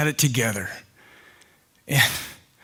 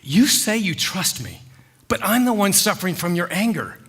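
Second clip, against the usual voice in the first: firm protest, pitched a little higher; putting his foot down; 4 semitones higher than usual. Acted. Husband standing up to his jealous wife, firm protest. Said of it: "I put my foot down".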